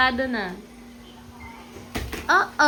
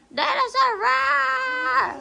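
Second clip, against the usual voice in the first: huge fiery dragon roar; 10 semitones higher, much slower than usual. Pretend. Mother voices toy dinosaur in play.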